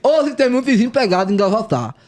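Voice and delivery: talking with tongue sticking out. Real, not acted. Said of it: "Ficar um minuto falando com a língua pra fora".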